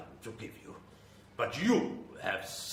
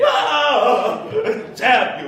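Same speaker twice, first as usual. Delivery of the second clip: loud, higher cursing yell; furious outburst; 11 semitones higher, 12 dB louder than usual. Acted. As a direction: spit the curse at the salesman. Vampire shown garlic.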